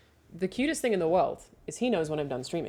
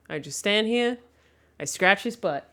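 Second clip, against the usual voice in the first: usual speaking voice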